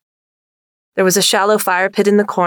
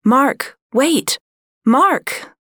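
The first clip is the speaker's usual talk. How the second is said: higher, urgent call after a brother; 7 semitones higher, much slower than usual. Acted. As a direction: shout after him to wait. Boy calling after his brother.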